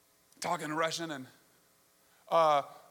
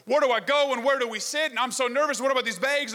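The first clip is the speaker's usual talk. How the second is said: higher, flustered string of questions; mock nervous traveler; 6 semitones higher than usual. Relieved foreign traveler to an English speaker, hammed-up nerves. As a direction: imitate an anxious tourist unloading every worry at once. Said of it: "You're nervous, you're unsure".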